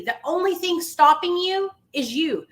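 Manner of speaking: high, preacher-like pep talk; booming motivational speech. Real, not acted. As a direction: preach it to the room. Preaching to a struggling listener.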